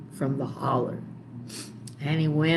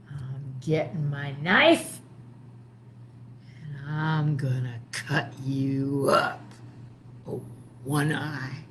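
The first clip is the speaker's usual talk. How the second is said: muttering witch; 5 dB louder, slower than usual. Acted. Witch threatens to her fish.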